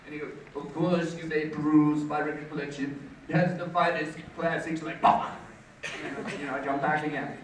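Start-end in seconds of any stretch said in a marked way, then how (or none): 0.6-5.3 pompous put-on snob voice; Scott. College rival showing off his record collection, pompous. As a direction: show off grandly, popping the composer's name. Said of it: "he would talk like this about it".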